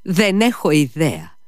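Mitya, nervous and hasty, blurts it out; quick nervous protest; nervous impatient cry. A narrator's reading. Mitya brushing off the lady, nervous and impatient. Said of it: "φώναξε νευρικά και ανυπόμονα".

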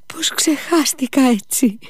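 put-on high, tipsy old man's voice with a giggle; drunk old man. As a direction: play the drunk father, giddy and forgetful. (μεθυσμένος γέρος, ψηλή φωνή με γελάκι)

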